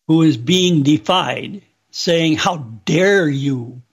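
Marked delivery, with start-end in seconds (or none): 2.3-3.8 slow, understated indignant rebuke; mild imitation of an offended ruler; how dare you tone. Retelling the Almighty's rebuke in a mildly indignant tone. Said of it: "was the tone of voice that he used".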